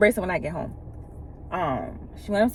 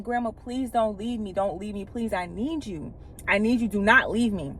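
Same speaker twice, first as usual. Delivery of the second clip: soft, pleading, softer than usual; retold begging; 4 dB quieter than usual. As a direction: quietly plead with grandma not to go. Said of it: "And I'm begging her".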